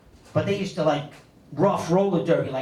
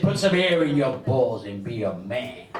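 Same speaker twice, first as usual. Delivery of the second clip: a hint of a stern dad, lower and slow; mock gruff father; 5 semitones lower, slower than usual. Father advising his young son, lightly voiced low and slow. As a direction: lightly play the tough old man giving orders. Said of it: "He said".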